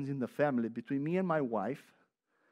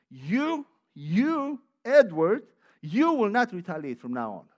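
mirror pep talk; 5 dB louder than usual. Retold or imitated. Man lecturing himself in the mirror, mild firmness. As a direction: lightly lecture yourself in the mirror. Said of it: "I speak in front of a mirror sometimes".

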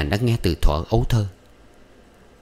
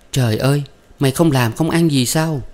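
scolding mother; 7 semitones higher than usual. A narrator's reading. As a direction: scold the wayward daughter sharply.

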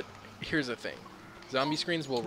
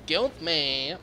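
excited; 5 semitones higher, 7 dB louder than usual. Acted. Playful game shout.

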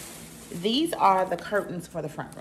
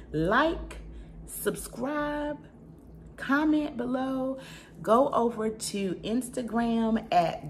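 bubbly outro; 6 semitones higher, slower than usual. Real, not acted. Upbeat outro call to action.

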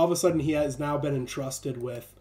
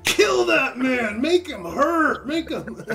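bloodthirsty John; 7 semitones higher, 5 dB louder than usual. Retold or imitated. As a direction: stretch out the revenge like a cartoon villain. John demands revenge on a man.

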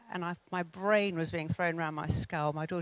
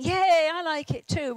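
put-on child's cheer; 9 semitones higher, 7 dB louder than usual. Child copies mother's excitement.

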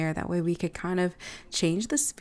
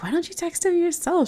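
higher, louder playful Naomi; Naomi's voice; 11 semitones higher, 5 dB louder than usual. Retold or imitated. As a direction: pitch it up and push it as Naomi. Narrator voices Naomi in retelling.

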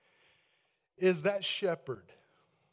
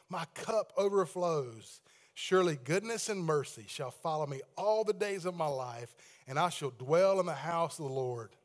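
scripture reading. Acted. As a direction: read the psalm out to the whole church. Continues reading the psalm.

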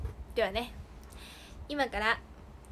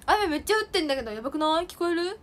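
raised, insistent voice; 4 semitones higher than usual. Real, not acted. Asking viewers whether they hear the heavy rain, insistent and raised. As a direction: say it up so they catch it.

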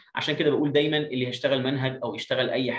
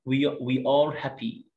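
put-on slow, clear reading for children; slow teacher read-aloud; slow model reading; much slower than usual. Shown as a demonstration. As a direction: read it out slowly, word by word.

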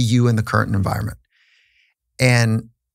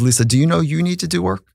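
lightly voiced higher counselor, rising question; a hint of the gentle therapist; wise therapist; 7 semitones higher, faster than usual. Therapist asking wife the same question, lightly voiced higher counselor. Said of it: "the wise woman stops us".

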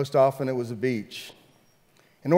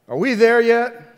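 put-on whining kid, higher and louder; whiny kid; 9 semitones higher, 9 dB louder than usual. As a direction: call it out like a bored kid in the back. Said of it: "one of us would yell out".

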